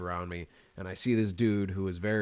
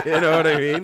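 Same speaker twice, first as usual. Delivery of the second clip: laughing; 6 semitones higher, 11 dB louder than usual. Real, not acted. Laughing repeat of question.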